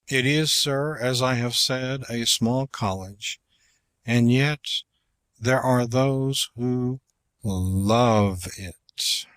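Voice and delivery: courtroom speech, weighty and measured; formal oration. Shown as a demonstration. Lawyer pleading before the court, oratorical with long falls. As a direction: plead the college's case to the court. Declaims Webster's address.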